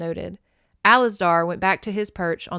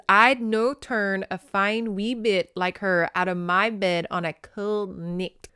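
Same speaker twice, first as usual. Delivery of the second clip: careful phonetic Scottish reading at normal volume; sounded-out Scots. Shown as a demonstration. Reader working out phonetic dialect, careful Scottish accent. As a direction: sound out the Scots slowly toward the end. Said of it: "I have to kinda read it out loud".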